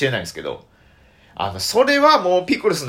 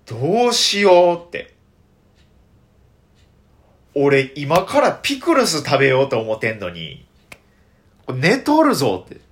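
mock panic; 4 dB louder, slower than usual. Panicking over eating pickles.

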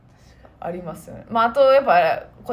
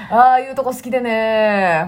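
slow quoted catchphrase. Retold or imitated.

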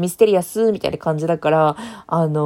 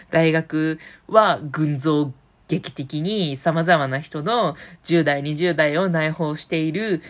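slow, solemn closing-line voice with lower pitch; mock grand ending narration; 3 semitones lower, slower than usual. Imagining the series' last line, read slowly and solemnly. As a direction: intone it like the final line of a drama. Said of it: "みたいなオチとかどう？".

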